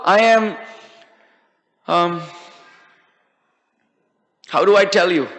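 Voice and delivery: halting, with long pauses; hesitant. A narrator's reading. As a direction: grope for the words between pauses. Beggar unsure how to answer guards.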